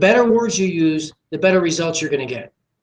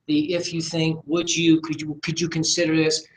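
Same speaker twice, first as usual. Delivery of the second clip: hesitant asking. Shown as a demonstration. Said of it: "Those are not part of my lexicon".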